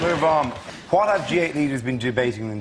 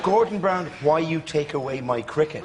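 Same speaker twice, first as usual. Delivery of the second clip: Mugabe. Retold or imitated. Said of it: "He doesn't speak as if".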